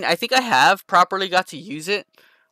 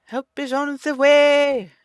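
slow, higher, hammed-up hero line; mock heroic announcer; 12 semitones higher, 4 dB louder than usual. Gamer to teammates, slow mock-heroic hero voice. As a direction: announce the rescue like a movie hero.

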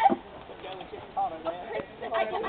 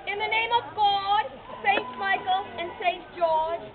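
ceremonial proclamation. Pretend. Mock ceremonial knighting of princess.

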